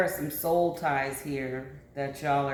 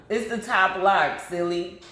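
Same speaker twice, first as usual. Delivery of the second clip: raised playful call; 4 semitones higher, 5 dB louder than usual. Real, not acted. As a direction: tease loudly across the room. Calling instructions to child.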